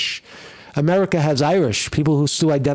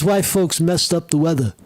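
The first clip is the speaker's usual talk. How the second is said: mocking quote; 3 semitones higher than usual. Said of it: "He says".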